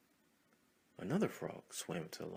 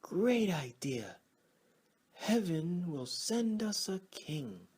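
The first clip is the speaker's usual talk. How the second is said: high, loud and slow; excited frog shout; 8 semitones higher, 8 dB louder, slower than usual. Acted. Frogs cheer that heaven will send a king, loud. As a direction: cheer it out to the whole crowd. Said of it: "Others began shouting".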